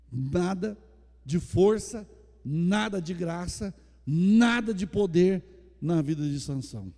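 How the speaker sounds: loud, fervent preaching to the church; full-force preaching. Acted. Pastor to his congregation, loud fervent preaching. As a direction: proclaim it loud to the whole congregation.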